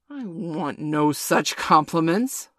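slow, loud petulant snap; petulant bark. A narrator's reading. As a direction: bark it like a sulky captain. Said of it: "Hook barked petulantly".

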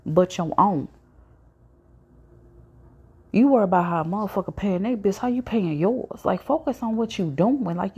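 scolding the gossiping homegirl, heated; heated retort. Retold or imitated. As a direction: tell her off, voice climbing. Retold argument with friend.

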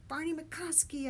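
high, mildly yelled name; yelling. A narrator's reading. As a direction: yell the answer back. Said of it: "I yelled".

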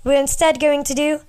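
slipping into a British accent; unintended British lilt. Real, not acted. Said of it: "I'm British right now".

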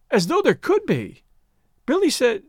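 put-on high, emphatic girlish voice; innocent young woman. A narrator's reading.

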